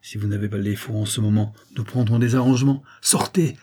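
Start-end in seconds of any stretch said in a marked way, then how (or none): 3.0-3.6 raised order, rising at the end; first warning to get out; firm order. Acted. Adeline orders the visitor out.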